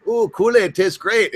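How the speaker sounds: put-on high, drawn-out caricature Chinese accent; mock Chinese accent. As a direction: imitate an old ad's Chinese stereotype accent, slowly. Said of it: "Chinese guys like".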